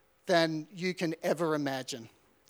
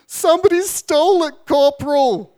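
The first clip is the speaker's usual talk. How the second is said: nervous reply; 8 semitones higher, 10 dB louder than usual. Retold or imitated. Recruit answers corporal under pressure.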